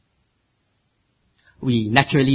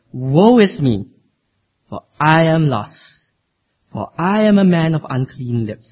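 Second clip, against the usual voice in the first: Isaiah's lament; 3 dB louder than usual. Acted. Reads Isaiah's lament aloud.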